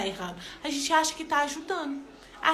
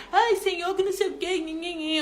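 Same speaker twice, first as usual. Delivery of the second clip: higher whiny complaint to God; mock whining; 4 semitones higher than usual. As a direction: whine at God, then trail off into nhe nhe. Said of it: "um dia reclamando com Deus". (reclamação choramingada de brincadeira)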